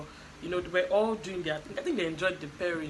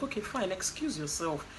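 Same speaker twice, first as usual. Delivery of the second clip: calm, even retelling of a dismissal; composed and unruffled. Retold or imitated. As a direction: excuse them calmly, without any heat. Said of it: "She was calm".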